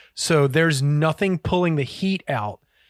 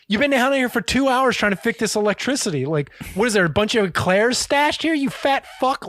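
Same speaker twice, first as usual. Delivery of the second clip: imitated sneering abuse; 5 semitones higher than usual. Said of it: "He's just being an asshole".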